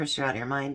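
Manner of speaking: ordinary talk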